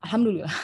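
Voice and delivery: "Alhamdulillah" as a garbled, front-heavy umbrella; like a sneeze. Shown as a demonstration. Teacher jokes on wrong umbrella stress, sneeze-like "Alhamdulillah". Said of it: "Kayak bersin".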